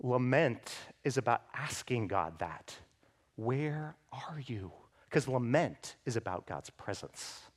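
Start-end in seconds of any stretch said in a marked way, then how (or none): 3.4-4.7 slow hushed whisper. Acted. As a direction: breathe the question softly. Whispered question to God.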